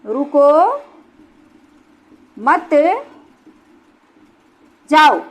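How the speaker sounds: long pauses after रुको and after मत, जाओ on its own; word-by-word dictation. Shown as a demonstration. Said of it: "दूसरा मैंने लिखा".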